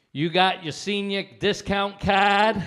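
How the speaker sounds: loud, slow clerk question; store clerk. Retold or imitated. Store clerk asking a customer for a card, loud and slow. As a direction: boom it out like a clerk at the counter. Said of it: "she goes".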